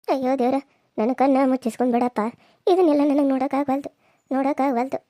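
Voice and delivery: wailing to God, then breaking off into sobs; acted weeping lament; tearful lament. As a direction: plead in despair, close to weeping. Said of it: "ಅಳ್ಬೇಡ".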